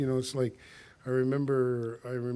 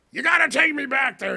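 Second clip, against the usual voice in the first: put-on high, louder drunk demand; pleading drunk; 10 semitones higher, 7 dB louder than usual. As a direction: whine to be taken back. Drunk Gordy demanding from back seat.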